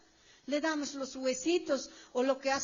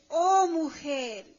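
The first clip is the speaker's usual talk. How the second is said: exclamation; 6 dB louder, much slower than usual. Retold or imitated. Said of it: "está diciendo en signo de admiración".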